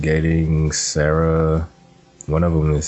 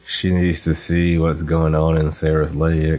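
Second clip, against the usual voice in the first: talking through giggles; can't stop giggling while speaking. Real, not acted. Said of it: "Why are you giggling?".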